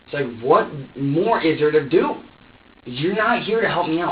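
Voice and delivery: retold exasperation, rising to loud protest; exasperated defence.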